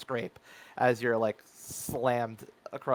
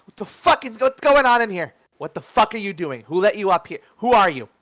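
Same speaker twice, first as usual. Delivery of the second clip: full-voiced, high, loud outburst; angry yell; 8 semitones higher, 11 dB louder than usual. Gang boss confronts the intruders upstairs, yelling. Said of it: "and then he just yells".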